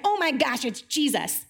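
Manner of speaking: lifted "oh my gosh" of sudden recognition; surprised Peter. Retold or imitated. Peter spotting Jesus on shore, light mock surprise. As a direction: gasp it out as you realise. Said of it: "Peter is like".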